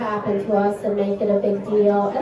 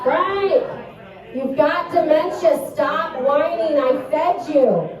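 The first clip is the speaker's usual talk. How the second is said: scolding the dog; 4 semitones higher, slower than usual. Retold or imitated. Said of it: "sometimes I'll just be like".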